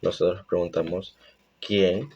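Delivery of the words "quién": quién asked with a rising tune; questioning rise on quién. Shown as a demonstration. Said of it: "como cuando hacemos una pregunta". (quién con tono ascendente de pregunta)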